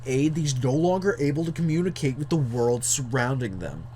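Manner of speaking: lightly voiced jock reading aloud; a hint of jock in the narration. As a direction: put on a touch of jock swagger. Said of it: "read this in the jock voice".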